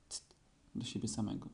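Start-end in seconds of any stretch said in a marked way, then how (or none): 0.1-0.3 very soft little hush; tiny whisper. A narrator's reading. Little Roo repeats the warning to himself, whispering. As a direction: whisper it just to yourself. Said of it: "maleństwo szepnęło cichutko".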